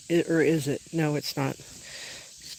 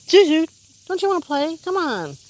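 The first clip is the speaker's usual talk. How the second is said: loud, high coaxing call; calling the dog; 11 semitones higher, 5 dB louder than usual. Real, not acted. Owner calls Zuzu over to play, loud coaxing. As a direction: coax her over from a distance.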